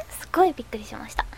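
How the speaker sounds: fast, hushed whisper. Real, not acted. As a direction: whisper it quickly. Telling about the cat.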